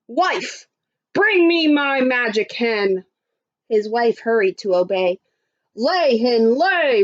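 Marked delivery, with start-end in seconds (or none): 0.1-3.0 lightly voiced commanding giant; mild giant shout. Giant demanding his hen from his wife, mild shout. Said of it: "Then he shouted". 5.7-7.0 lightly roared, drawn-out command; mild giant roar. Acted. Giant ordering the magic hen, mild roar. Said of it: "roared the giant".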